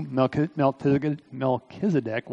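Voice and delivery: real tongue-tied fumble on "Melchizedek"; tongue-tied stumble. Real, not acted. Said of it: "Can't even talk this morning".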